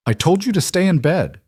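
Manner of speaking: sharp, tight with irritation; irritated scolding. Acted. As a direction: scold the child, annoyed. Marissa scolds child at bedtime.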